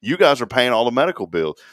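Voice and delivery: loud, high complaining customer; mock outraged caller; irate prank caller. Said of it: "I said".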